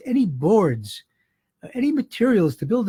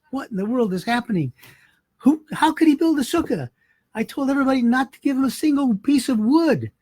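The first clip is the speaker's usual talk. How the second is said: raised, higher indignant outburst; furious rich man; 6 semitones higher than usual. Retold or imitated. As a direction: demand it like an outraged rich man. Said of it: "So he's furious".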